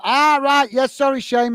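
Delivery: a quick, embarrassed "oh, right!"; sudden realisation. Real, not acted. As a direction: react as it suddenly clicks. Suddenly remembers the viewer.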